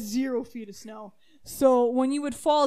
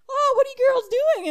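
higher, louder call of a passing dad; cheery dad; 12 semitones higher, 9 dB louder, faster than usual. Retold or imitated. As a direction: call out casually from the skidoo.

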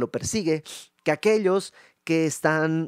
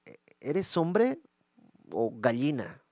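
mocking taunt; slower than usual. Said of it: "le está diciendo".

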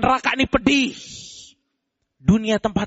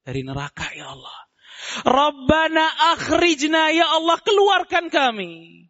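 higher, slow wailing cry from hell; 4 semitones higher, slower than usual. Acted. The damned screaming to Allah from hell, wailing. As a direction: wail to be let out. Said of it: "Mereka teriak kepada Allah".

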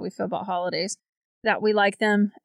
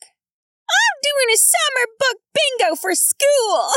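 much higher and slow, laughter running through it; laughing read; 3 dB louder, much slower than usual. Real, not acted. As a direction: read it while cracking up. Reading a listener's comment, laughing.

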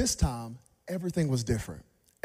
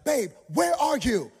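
higher, slow call from the wife; wife's voice; 9 semitones higher, 5 dB louder than usual. Retold or imitated. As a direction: mimic the wife calling. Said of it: "she'll be like".

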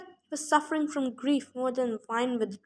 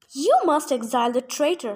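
louder, firm demand; insisting; 5 dB louder than usual. Acted. Silenus demands the council exile Grover, louder and insistent. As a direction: press the point hard. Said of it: "Silenus insisted".

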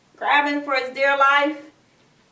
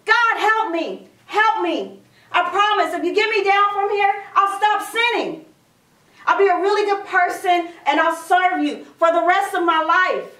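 mock yelling; 3 semitones higher than usual. Jack bargaining with God from the branch, mild mock yell. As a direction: cry out for help in mild earnest. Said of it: "he started yelling".

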